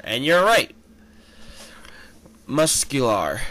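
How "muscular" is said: whispered aside; hushed, voiceless label; whispered name. Acted. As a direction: breathe the name without voice. Reading a character name.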